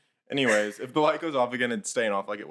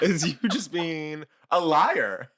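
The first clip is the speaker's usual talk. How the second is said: laughing; 5 semitones higher, much slower than usual. Real, not acted. Teasing friend while laughing.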